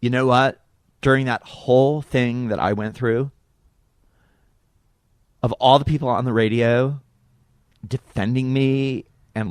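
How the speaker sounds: lightly voiced, halting and tearful sincerity; Monica Lewinsky. Monica thanks radio host for defending her, understated tearful impression. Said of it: "Her eyes fill with tears".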